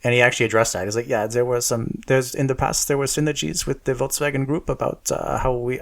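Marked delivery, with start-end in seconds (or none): 1.1-5.8 light mock German accent quoting the CEO; a casual hint of a German accent. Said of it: "I'm doing a German accent".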